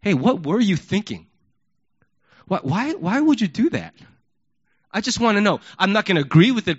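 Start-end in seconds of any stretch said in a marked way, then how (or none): 0.0-5.6 calm, curious and open; really want the answer; genuine asking. Retold or imitated. Parent genuinely asking a kid, calm and curious. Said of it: "you actually ask the question".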